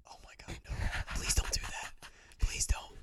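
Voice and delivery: soft unvoiced whisper. Real, not acted. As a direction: whisper it, barely any voice. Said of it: "we have to get into our A S M R voices".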